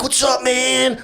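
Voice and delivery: high, slow lazy greeting; drawn-out bro reply. Retold or imitated. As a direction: stretch it out, unbothered.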